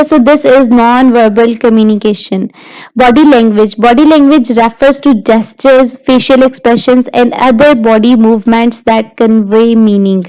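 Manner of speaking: slow, measured reading of slide text; slow lecture read-aloud. Acted. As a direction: read the definition out word by word, slowly.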